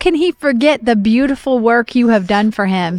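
deliberate, measured reading with pauses; scripture reading. Real, not acted. Reading Hebrews chapter six to the others, measured scripture reading. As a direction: set each phrase apart as sacred text.

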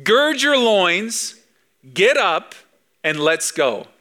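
rallying call. Acted. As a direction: rouse them to get up. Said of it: "the Hebrew literally means put your pants on".

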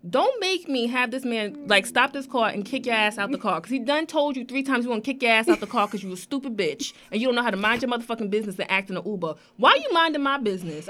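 mildly heated mock yell; retold yelling. Scolding fellow passenger in the Uber, retold mild yelling. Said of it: "And I'm out here yelling".

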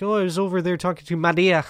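put-on plain sentence, only "Maria" in a Spanish accent; mock Spanish accent on name. Mocking people who accent only names, a Spanish accent on "Maria". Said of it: "a accent on only the thing".

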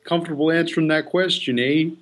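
mock Canadian accent with a tagged-on "eh"; joking Canadian lilt. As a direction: put on a light Canadian accent. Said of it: "Make him Canadian".

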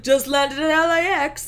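light British accent impression. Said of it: "That's my sort of British accent".

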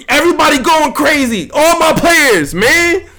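yelling about his fantasy team collapsing; frustrated outburst. Real, not acted. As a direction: blow up at how it all went.

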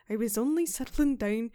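put-on slipping into a light Scottish accent; the Irish attempt drifts Scottish. Podcaster admits the quote came out Scottish, light Scottish accent. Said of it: "No, that's Scottish".

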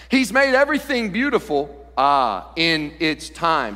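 slow down and land on "time"; "in its time" drawn out, weight on "time"; stress on "time". Shown as a demonstration. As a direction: hold back, then stretch out "time". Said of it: "the emphasis needs to be on the word time".

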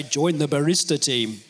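a clumsy, hammed-up Macedonian accent; bad Macedonian accent. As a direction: fake a Macedonian accent badly, for laughs. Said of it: "That was a terrible Macedonian accent".

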